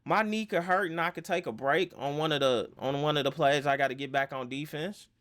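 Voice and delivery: mock-defiant player waving off critics; a hint of stubborn excuse-making; defiant denial. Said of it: "But you like".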